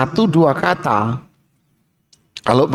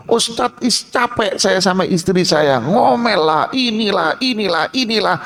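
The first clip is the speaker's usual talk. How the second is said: slightly higher, weary grumble; complaining husband; 4 semitones higher than usual. Acted. Husband complaining to the ustadz, mildly weary whine. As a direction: grumble about the wife to the teacher.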